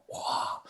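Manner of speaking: soft unvoiced whoosh; whooshing "whoa" sound effect; imitated desk noise. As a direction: breathe out the knob's weird swoosh. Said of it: "it's like".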